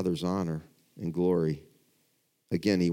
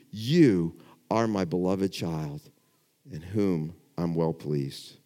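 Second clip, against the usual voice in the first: tender, personal; 3 semitones lower, slower than usual. Retold or imitated. Softer personal rendering of same words.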